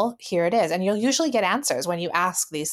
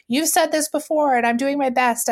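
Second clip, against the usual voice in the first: much higher and louder, flustered defensive outburst; partner's overreaction; 7 semitones higher, 4 dB louder than usual. Retold or imitated. Partner snaps back at her after being told to relax, high and loud. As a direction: play him flaring up, voice shooting high. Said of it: "the floodgates open where it's like".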